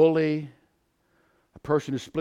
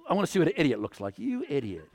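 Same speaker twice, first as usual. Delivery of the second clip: low, hushed grumble under the breath; quick mutter trailing down to a soft insult; irritated mumbling; 4 semitones lower, 6 dB quieter, faster than usual. Acted. Impatient shopper grumbling at someone in the cash-only line, mumbling. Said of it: "I'm mumbling all this stuff".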